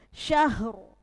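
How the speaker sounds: syahru with a thick ro at the pause; heavy ro at the stop. Shown as a demonstration. Teacher shows students the pausal reading.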